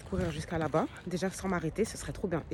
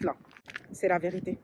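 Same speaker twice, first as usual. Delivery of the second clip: ordinary delivery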